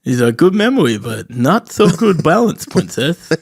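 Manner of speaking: lightly lisped w-for-r voice; mock suave line with babyish consonants; comic put-on accent. Mocking the waiter who spilled the tray, comic babyish accent. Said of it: "I've been saying that accent all weekend".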